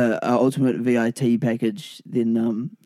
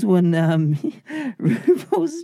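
higher slow announcer voice; host voice to fans; 10 semitones higher than usual. Pretend. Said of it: "you're not talking to me".

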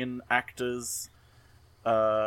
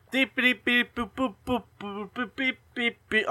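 high beeping alien chirps; squeaky little alien bleeps to fill time; 12 semitones higher than usual. Pretend. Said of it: "vamp for a second".

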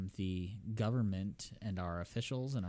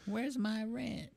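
put-on high, slow toddler landlord demand; gruff impatient scolding; 13 semitones higher, slower than usual. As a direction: bark for the rent like a tiny landlord. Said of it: "The Landlord Pearl".

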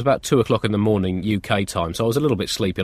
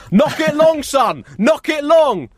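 high, loud yelling parent; touchline shouting; 3 dB louder, slower than usual. Retold or imitated. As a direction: bellow encouragement across the pitch. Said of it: "You're probably gonna hear them say".

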